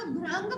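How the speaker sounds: भृंग as "bhrang", with "ra"; mispronunciation. Shown as a demonstration. Teacher warning pupils of the misspelling, भृंग said "bhrang". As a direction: say भृंग with an a after r. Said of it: "अगर आप भृंग बोलेंगे".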